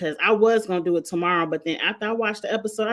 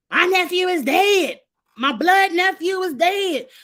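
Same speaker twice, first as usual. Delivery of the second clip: high, loud mock wail over the dead nephew; hammed-up grieving impression; mocking Marlo; 10 semitones higher, 4 dB louder than usual. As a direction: mimic her drama, pitched way up. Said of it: "I'm like".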